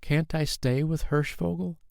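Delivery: put-on high boy's voice, begging; boy asking the king to stay; pleading child. A narrator's reading. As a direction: plead like a hopeful little boy. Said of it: "he pleaded".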